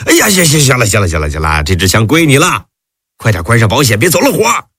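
mild hurried fright; hurried alarm. Acted. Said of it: "连声说道".

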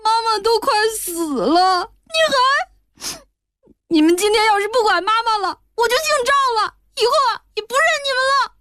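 put-on high tearful child's voice, sobbing through the words; a little boy crying at his father. A narrator's reading. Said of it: "哭道". (小男孩边哭边质问爸爸)

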